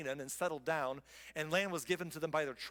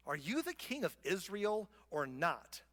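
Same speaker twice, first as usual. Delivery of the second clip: demanding; slower than usual. Acted. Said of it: "Jezebel demanded".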